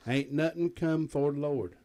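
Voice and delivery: a light hillbilly twang, barely put on. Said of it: "in my best hillbilly voice".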